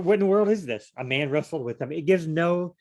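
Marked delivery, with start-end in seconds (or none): 0.0-0.9 incredulous outburst. Real, not acted. Puzzling over a strange verse.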